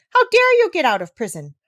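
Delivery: furious king searching the dark; angry king. Acted.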